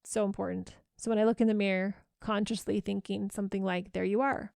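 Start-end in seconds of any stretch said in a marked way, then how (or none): 3.9-4.5 friendly hello with a lilting "hi"; friendly greeting. Shown as a demonstration. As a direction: greet yourself like a dear friend. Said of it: "in a really friendly voice".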